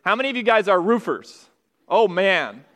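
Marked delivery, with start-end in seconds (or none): 0.8-1.5 ROOFERS with the long oo of "food"; long vowel roofers. Shown as a demonstration. Pastor polling the other camp, long-vowel ROOFERS. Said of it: "some people say it roof".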